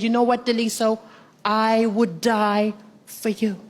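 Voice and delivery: low, slow and tender; lightly voiced ex, slow and earnest; a touch of a solemn lover; tender declaration. Ex's romantic declaration.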